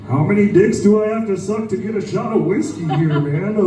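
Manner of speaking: a hint of a stoner buddy voice, lightly done; lightly voiced laid-back bro asking for a shot; Seth Rogen impression. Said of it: "I used to do a Seth Rogen impression".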